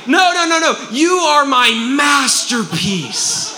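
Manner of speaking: high, loud, laughing insistence; laughing loud God. Retold or imitated. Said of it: "God's like".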